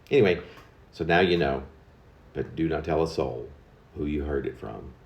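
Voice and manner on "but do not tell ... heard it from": hushed secret. Acted. Teller swears listeners to secrecy.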